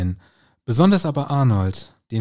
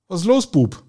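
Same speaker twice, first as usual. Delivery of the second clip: a lightly voiced old Willi, raised and asking; concerned old man; 7 semitones higher, 5 dB louder than usual. A narrator's reading. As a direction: call out gently to the downcast friend. Old Willi asks worried friend.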